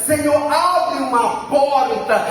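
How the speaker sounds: high, slow, stretched plea; imitated cry to heaven. Someone begs God for an open door, drawn-out high cry. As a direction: draw out the plea as if calling upward. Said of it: "olhe para o céu e grita".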